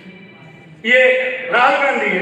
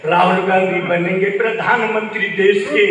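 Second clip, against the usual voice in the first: poem recital; 3 semitones lower than usual. Shown as a demonstration. Recited verse.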